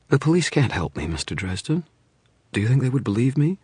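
high, urgent pleading. Acted. Frightened client pleading with detective, high and urgent. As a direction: beg him to understand.

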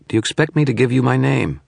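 high, mocking contempt; scornful. Shadowy figure scorns the wizard's question, mocking. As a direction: sneer it at him. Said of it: "the shadow scorned".

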